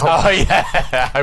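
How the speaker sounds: oh yeah through a laugh. Real, not acted. Laughing realization.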